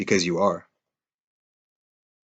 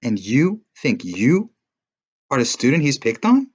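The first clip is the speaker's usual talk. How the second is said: high, louder passionate scolding; heated reproach; 6 semitones higher, 4 dB louder than usual. A narrator's reading. Girl scolds the boy, high and heated. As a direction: shake him out of self-pity. Alicia confronting him heatedly.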